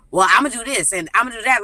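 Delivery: mocking a kid. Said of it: "like a kid".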